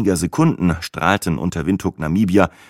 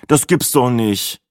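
slow, dismayed groan, a bit higher; 6 semitones higher, slower than usual. A narrator's reading. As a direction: drag it out in dismay. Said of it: "stöhnte ich".

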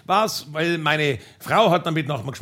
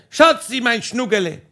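pet name called out, higher; mock calling out; 4 semitones higher than usual. Husband on the roof to wife in the garden, mock calling out. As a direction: call it lightly across a distance. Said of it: "ich hab geschrien".

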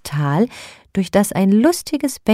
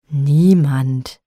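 a mild low growl; 3 semitones lower than usual. Acted. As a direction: snap back a single sullen word. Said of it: "knurrte er wieder".

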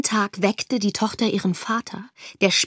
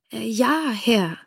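hesitant; 2 semitones higher, slower than usual. Acted. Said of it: "sagte die Tochter".

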